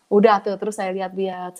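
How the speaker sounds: usual speaking voice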